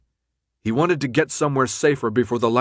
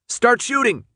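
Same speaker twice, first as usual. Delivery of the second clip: high, urgent shouted order; 12 semitones higher, 4 dB louder than usual. A narrator's reading. Fighter ordering friends to open fire, shouted. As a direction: shout the command. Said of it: "Minho shouted".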